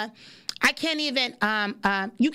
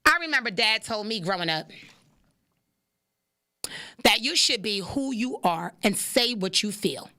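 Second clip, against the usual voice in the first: reading a quote; 3 semitones lower than usual. Acted. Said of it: "Richard Morgan says".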